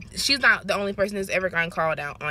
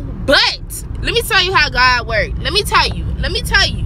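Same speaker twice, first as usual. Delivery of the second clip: louder, rising emphatic "let me tell you"; emphatic build-up; 5 semitones higher, 6 dB louder than usual. Real, not acted. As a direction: lean in and hype the story up. Building up to a testimony.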